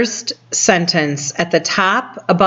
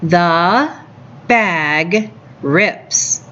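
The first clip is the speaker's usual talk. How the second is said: put-on reading to a toddler; much slower than usual. Shown as a demonstration. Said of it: "Read it with me".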